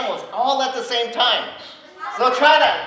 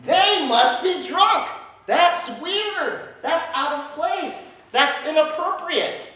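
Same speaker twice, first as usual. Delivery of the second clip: judging onlookers; 4 semitones higher than usual. Retold or imitated. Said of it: "are like".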